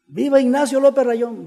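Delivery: high, ringing rally call; imitated grito. Stand-in giving the grito to the town, acted shout. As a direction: call out the hero's name as if from a tribune. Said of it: "empieza a gritar".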